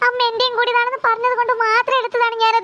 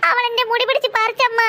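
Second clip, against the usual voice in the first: whimpering complaint. Acted. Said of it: "എന്തിനാടി ഇവിടെ കിടന്ന് മോങ്ങണത്?".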